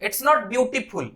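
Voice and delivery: "not" leaned on, said slowly; It's NOT beautiful, drawn out; slow correction. Shown as a demonstration. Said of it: "गलत pronounce".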